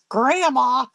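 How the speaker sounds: high, loud mock protest; imitated embarrassed outcry; embarrassed granddaughter. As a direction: exclaim like a mortified granddaughter.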